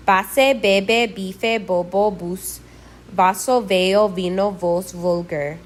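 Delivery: Base, bebe, vaso, vino all begun with a B sound; same B and V. Shown as a demonstration. Teacher showing B and V as one Spanish sound, V said as B. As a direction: say vaso, veo, vino, vos, vulgar with B, like bebe. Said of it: "B and V represent the same".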